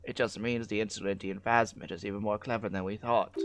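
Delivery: lightly voiced delighted old woman; a hint of an eager old lady sure she's right; mild old woman's excitement. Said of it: "The old woman's face lights up".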